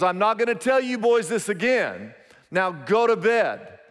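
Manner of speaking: retold stern threat, mildly heated; imitating a fed-up father, understated; mad dad. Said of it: "He was really mad".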